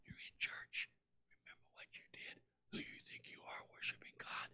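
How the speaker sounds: sneering whisper of the accuser; devil whispering. Acted. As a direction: hiss the guilt softly into their ear. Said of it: "He whispers".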